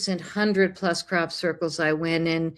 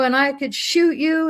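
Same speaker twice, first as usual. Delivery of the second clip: put-on yell, higher pitch; 8 semitones higher, 3 dB louder than usual. Retelling a farmer confronting someone on his property: imitating a farmer yelling. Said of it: "he was yelling".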